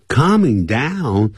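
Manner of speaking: Calming said slowly with a clear open ah; Calming with the l silent. Shown as a demonstration. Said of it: "用calm".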